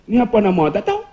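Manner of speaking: imitated Kedah question, rising on "tahu"; Kedah dialect. Ustaz mimicking Kedah speakers, Kedah dialect. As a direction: ask it Kedah-style, lifting the last word. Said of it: "Orang Kedah".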